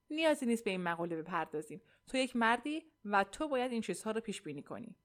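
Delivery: mildly imperious reply; understated, bossy firmness; commanding tone. Acted. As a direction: lay down the law to a husband.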